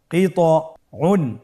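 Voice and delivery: কিতউন drawn out slowly; careful slow demo; slow blended reading. Shown as a demonstration. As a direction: join the syllables slowly. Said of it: "ভেঙে ভেঙে পড়তে হয়".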